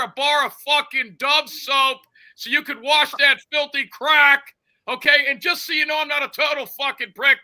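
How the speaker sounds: roast him with fake generosity; mocking rant. Mock apology turns to insult.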